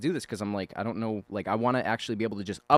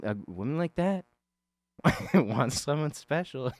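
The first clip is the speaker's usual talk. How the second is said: higher and slow, sneering at him; mocking high taunt; 6 semitones higher than usual. The bully belittling him, slow and higher. Voicing the taunting character again.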